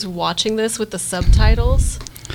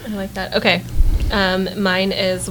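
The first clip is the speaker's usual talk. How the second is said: ordinary talk, nothing marked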